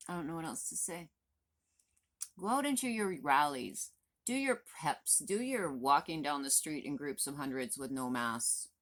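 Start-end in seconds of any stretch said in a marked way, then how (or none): 2.4-7.3 sarcastic scoff. Real, not acted. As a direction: sneer at their rallies, pitch shooting up. Mocking anti-mask rallies.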